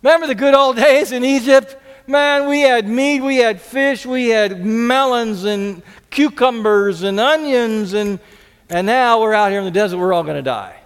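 mild mock whine about the desert; mock grumbling Israelites. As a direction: lightly mimic grumblers pining for Egypt. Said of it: "romanticized how great it was back in Egypt".

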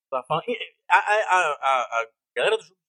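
quiet muffled voice. Real, not acted. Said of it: "Aconteceu alguma coisa com a sua voz".

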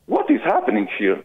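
mildly stunned, imitating the other driver. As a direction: act out a mild, baffled astonishment. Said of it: "like, stunned".

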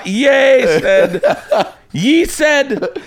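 high, laughing stage Irish; giggling cartoon Irish; leprechaun Irish accent. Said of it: "Irish people don't know the word I".

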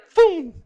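sharp, high, loud whoosh of someone rushing by; whoosh sound. Retold or imitated. A preacher mimics the visitor darting past, loud and high. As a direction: spit out a quick whoosh like a bullet passing.

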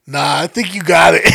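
loud breezy imitation of the nephew; mock confident nephew. Nephew reassuring driver about sharp alley, loud breezy. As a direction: toss it off loud and sure of himself. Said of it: "the intern looked at me and said".

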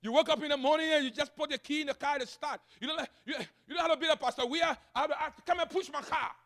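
animated preaching. Real, not acted. Pastor telling church about car trouble, animated preaching.

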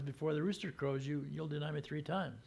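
softly, gravely foretelling; Jesus quietly foretelling the denial; quiet warning. Retold or imitated. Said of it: "The way he said it was".

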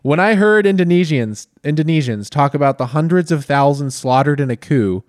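lightly formal reading voice, a touch grand; reading a book aloud. Acted. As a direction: read it like a solemn presidential memoir. Reads Obama's book aloud.

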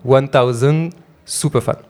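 English title in a heavy French accent, said slowly; slow English with an unmistakable French accent; thick French accent in English. Shown as a demonstration. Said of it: "pardonnez-moi pour mon accent anglais à couper au couteau".

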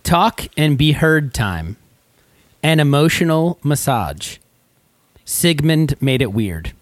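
slow, measured poem reading; haiku recital. Shown as a demonstration. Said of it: "All right, here we go".

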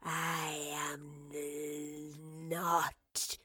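low, slow, whispered creature; inhuman creature voice. Acted. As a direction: draw it out like a dying monster. Inhuman creature speaks to Marlowe.

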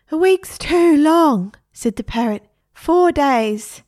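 high, loud, slow haggling parrot; a parrot haggling over days, high and loud. A narrator's reading. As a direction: bargain hard, squawking.

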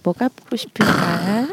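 slow, soft flirting voice; seductive phone voice. Acted. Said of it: "전화 목소리로".

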